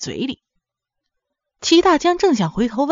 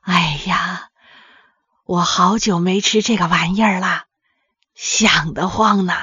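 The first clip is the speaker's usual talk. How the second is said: put-on delighted old mother; 3 semitones lower than usual. A narrator's reading. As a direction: savour it as a contented old mother. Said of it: "脸上立刻乐开了花".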